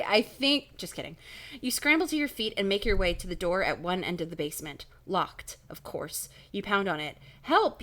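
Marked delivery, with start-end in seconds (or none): 0.0-0.8 exaggerated slow delivery; stretched-out mock-slow speech; slowly. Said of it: "you say slowly". 7.4-7.8 high, louder call for help; raised, urgent storybook cry. A narrator's reading. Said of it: "you call".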